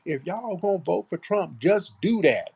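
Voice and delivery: high mocking impression; mocking Kamala's put-on accent. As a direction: imitate her scolding the crowd in a high put-on voice. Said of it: "she's talking with this F B A accent now".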